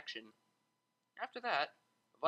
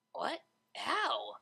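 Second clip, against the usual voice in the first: sharp, defensive questions, louder; 7 semitones higher, 4 dB louder than usual. Acted. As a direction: bristle and snap back the questions. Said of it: "Vinyl asked defensively".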